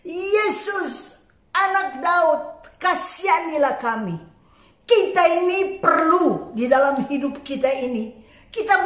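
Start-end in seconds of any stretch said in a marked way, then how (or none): 0.0-4.2 mild retold cry for mercy; calling out. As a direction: call out for pity, voice raised in pitch. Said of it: "Dia berseru dengan suara yang keras".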